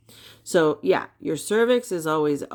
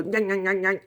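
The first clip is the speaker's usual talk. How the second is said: toy crocodile snapping; faster than usual. Retold or imitated. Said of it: "their little mouth would go".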